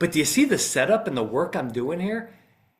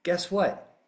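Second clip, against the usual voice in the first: lawyer addressing jury; 3 semitones higher than usual. Shown as a demonstration. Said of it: "You go".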